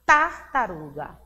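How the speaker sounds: "Tartaruga" with the tongue held at the teeth on T; língua entre os dentes. Shown as a demonstration. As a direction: press the opening T of "Tartaruga". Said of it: "A nossa língua entre os dentes". (Tartaruga com T entre os dentes)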